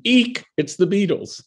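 high shrieking fangirl squeal; high mock scream of a thrilled fan; inner scream. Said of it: "I hear this scream in my head".

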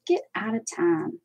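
light Pittsburgh accent demo. Shown as a demonstration. Crafter showing viewers her accent, lightly put-on Pittsburgh. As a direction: show off a bit of Pittsburgh. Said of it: "How's that for my Pittsburgh accent?".

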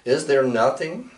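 measured, solemn poetry reading; poem recital. Acted. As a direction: read the old poem with ceremony. Recites a translated Nahua poem.

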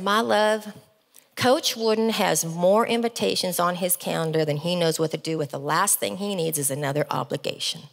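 lightly imitated Southern gentleman; husband's Southern accent, hinted at. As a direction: put on a mild Southern accent for a humble husband. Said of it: "I have to do the Southern accent".

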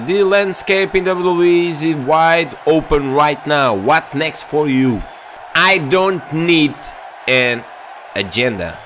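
slow, put-on English interviewer and wrestler; a lightly acted wrestling promo exchange; mock interview. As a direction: drawl it like a TV promo. Imitates English interview voices.

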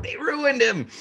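high, incredulous put-on voice; mock-outraged fan voice; exasperated quote. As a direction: squeak it out in disbelief. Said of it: "I was like".

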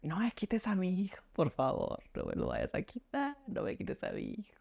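hushed imitation of a mother's high, desperate scream; retold pleading cry. Mother begs father not to take her son, retold muted scream. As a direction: act out the scream without volume, pitch leaping. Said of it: "mi mamá sale gritando".

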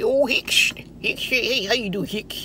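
put-on mumbling old man, pitch jumping about. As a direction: babble a half-intelligible greeting as an old country man. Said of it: "J D, Mister J D. Old, old white man".

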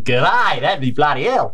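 hammy Aussie G'day; Australian accent. Acted. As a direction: lay on a broad Australian accent. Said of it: "that's your Australian accent".

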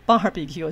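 barbecue 的 bar 压低用力，不拉高; 示范错误读法：低低地快速念 barbecue; 错误的念重. Shown as a demonstration. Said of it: "不是barbecue". (把 barbecue 开头念得低而重)

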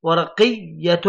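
"ورقية" sounded out with a clear final -tun; tanween ending. Shown as a demonstration. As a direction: say "ورقية" as waraqiy-yatun, lingering on the n. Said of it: "نلاحظ الحرف الأخير". ("ورقية" مع تنوين الضم)

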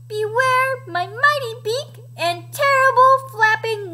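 high, bold chicken threat; storybook chicken playing fierce; Edna. A narrator's reading. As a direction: warn them off as a plucky little hen. Chicken mimics dinosaur's threat.

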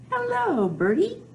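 cheery greeting. Pretend. Boy greets bird in story.

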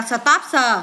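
"stopser" with a separate "sờ" on the end; added s sounded. Shown as a demonstration. Teacher showing pupils verb endings, s sounded out. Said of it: "thêm sờ vô đọc là".

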